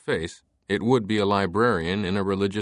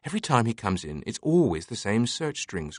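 lightly voiced amused librarian; 2 semitones higher than usual.

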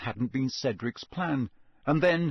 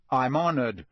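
dark; 3 dB louder than usual. Acted. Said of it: "said Harry darkly".

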